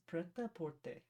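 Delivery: prêt-à-porter said softly in French, falling at the end; French pronunciation. Shown as a demonstration. Co-host showing how to say prêt-à-porter, French pronunciation. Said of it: "Okay, how would you say it?".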